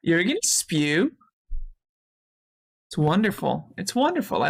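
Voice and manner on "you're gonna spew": slow, with a smile curling in at the end; imitated smiling question. Streamer imitating the excited friend in the video, smiling question. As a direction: mimic a hopeful question, a smile creeping into the last word. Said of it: "that curve into a smile".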